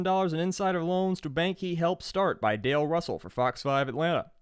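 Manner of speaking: quick run through the headlines; rattled off fast. Shown as a demonstration. Host reading the episode's sources to listeners, quickly rattled off. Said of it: "I'm just gonna rattle out all of 'em, uh, super fast".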